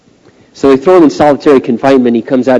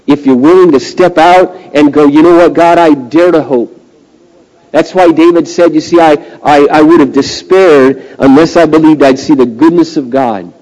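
somewhat raised pulpit voice; earnest preaching; 4 semitones higher, 5 dB louder than usual. Real, not acted. Preacher quoting David to the congregation, earnest preaching. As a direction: urge the listeners to step out.

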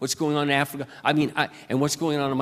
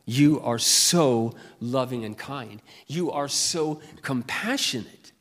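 tender prayer; 2 semitones lower, slower than usual. Retold or imitated. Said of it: "I go".

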